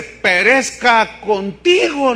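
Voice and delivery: grave slow condemnation; stern rebuke. Acted. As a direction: drag it out like a sentence of doom. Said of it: "le dice".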